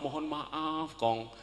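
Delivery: put-on young rider apologising meekly to grandpa, soft; humble apology. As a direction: beg pardon meekly. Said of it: "Dengan rendah hati saya mohon maaf".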